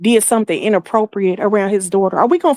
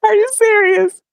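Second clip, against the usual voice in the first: surprised; 12 semitones higher than usual. Real, not acted. Reacting to surprising news.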